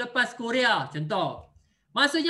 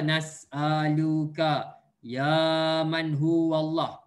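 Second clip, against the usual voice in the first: slow recitation; 6 semitones lower, much slower than usual. Shown as a demonstration. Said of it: "Ini yang awak belajar".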